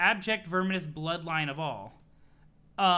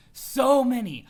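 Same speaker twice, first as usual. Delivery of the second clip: loud, higher and gleeful; gleeful shout; 6 semitones higher, 11 dB louder, slower than usual. Acted. Boasting to a partner about meddling, loud glee. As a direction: belt it out like a villain bragging.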